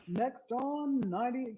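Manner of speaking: playful radio jock intro. Shown as a demonstration. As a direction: announce it like a radio DJ. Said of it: "like, D J voice".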